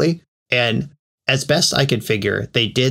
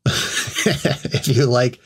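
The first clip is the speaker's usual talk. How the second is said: laughing; 2 semitones higher, much slower than usual. Real, not acted.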